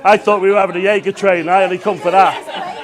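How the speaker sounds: talking through a mouthful of sweets; words muffled by sweets; muffled, mouth full. Real, not acted. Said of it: "I'm sorry the sweet's all muffled".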